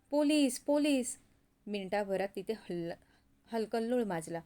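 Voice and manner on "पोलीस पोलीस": raised, higher-pitched cry of warning; alarmed shouting. Acted. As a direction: call out the alarm, acted for a story. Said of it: "लोक जोरजोरात ओरडायला लागले".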